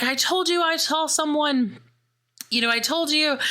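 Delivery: light imitation of a rattled friend proved right; high told-you-so. Sarah vindicated after creature appears.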